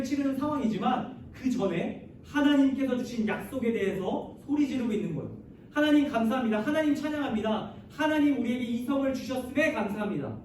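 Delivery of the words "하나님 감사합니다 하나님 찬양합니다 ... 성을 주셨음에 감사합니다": mildly raised cry of thanks; understated acted shout of gratitude; shouted thanksgiving. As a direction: call out praise in a slightly lifted voice. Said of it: "이 소리를 지르고 있었던 겁니다".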